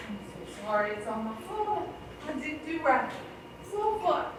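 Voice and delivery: tearful apology. Acted. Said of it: "the way you carry on".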